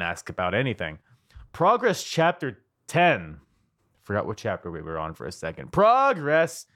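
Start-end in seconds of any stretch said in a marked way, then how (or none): 1.5-3.4 slow, raised ring-announcer call; hype announcer. Pretend. Host introducing the Progress show like a ring announcer. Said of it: "How many times am I gonna say it?". 5.7-6.7 raised, rising announcer call; hype announcer. Pretend. Host hyping the show like an announcer. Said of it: "How many times am I gonna say it?".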